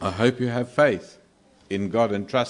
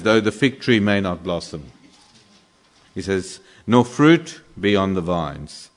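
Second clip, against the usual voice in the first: loud recitation; 7 dB louder than usual. Acted. Preacher reading Habakkuk's lament to the congregation, loud and declaiming. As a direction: declaim each line loud and full.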